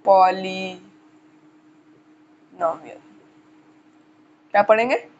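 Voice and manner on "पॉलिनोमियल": very slow, lower, with long gaps between syllables; drawn-out dictation. Real, not acted. Teacher spelling out the topic for students, drawn-out dictation. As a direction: stretch the term out as you write it. Writing out term while saying it.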